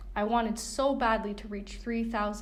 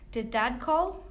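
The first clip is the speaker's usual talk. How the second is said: harsh; 3 semitones higher, 5 dB louder, slower than usual. A narrator's reading. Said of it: "my tone harsh".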